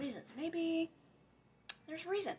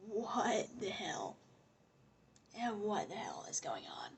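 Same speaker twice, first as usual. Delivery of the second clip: breathy stage whisper, half to herself; 3 semitones lower than usual. Real, not acted. Vlogger whispering her disbelief to viewers. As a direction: hush it like a shocked aside. Muttering under breath about scandal.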